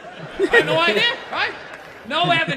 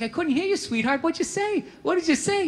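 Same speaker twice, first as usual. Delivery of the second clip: higher-pitched sweet questioning; coaxing a child; 7 semitones higher than usual. Retold or imitated. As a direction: act out gently asking a kid to repeat.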